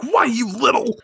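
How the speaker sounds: mock sputtering fury, pitched high; Artemis. Artemis answering Minako's insult, mock high-pitched fury. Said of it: "they're screaming at each other".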